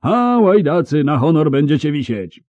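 pompous knight threatening villains; shouted threat. Acted.

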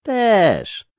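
high, loud lisped reply; lisping thug. A narrator's reading. Robber answering his victim, lisping with menace. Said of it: "powiedział ten sepleniący".

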